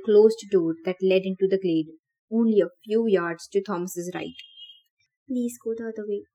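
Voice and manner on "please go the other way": silent plea. Acted. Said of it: "Thomas pleaded silently".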